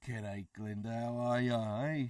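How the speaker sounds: hammed-up Aussie g'day; mock Australian accent. Greeting Glinda in a cartoon Australian accent. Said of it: "terrible Australian accent".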